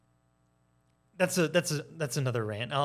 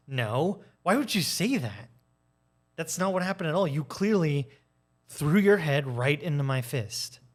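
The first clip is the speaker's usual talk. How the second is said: raised, offended protest of innocence; indignant gaslighter. Retold or imitated. Gaslighter turns the blame on the victim, indignant and raised.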